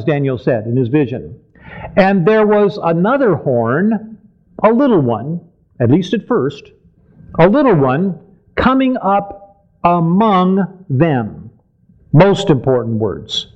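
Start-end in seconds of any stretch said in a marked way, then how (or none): 2.0-5.4 slow, deliberate verse reading. Real, not acted. Preacher reads a key verse to the congregation, slowly. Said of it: "we want to read it slowly". 7.4-11.5 very slow, measured scripture reading. Real, not acted. Preacher reads the most important words, very slowly. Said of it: "we want to read it slowly".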